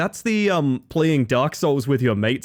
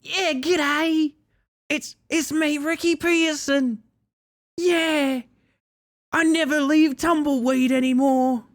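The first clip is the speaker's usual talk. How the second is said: much higher, slow airy Australian bogan drawl as Ricky Pearson; high-pitched Australian bogan answering to his name, in character; Ricky Pearson impression; 14 semitones higher, slower than usual. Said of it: "Ricky, is that you?".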